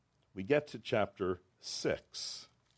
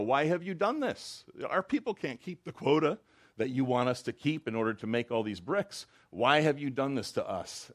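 higher, louder plea; pleading appeal; 5 semitones higher, 4 dB louder than usual. Retold or imitated. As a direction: plead with the king in dismay. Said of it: "they appeal to Pharaoh".

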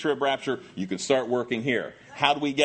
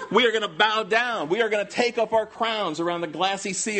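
fervent praise; 6 semitones higher than usual. Acted. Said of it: "it's gonna be".

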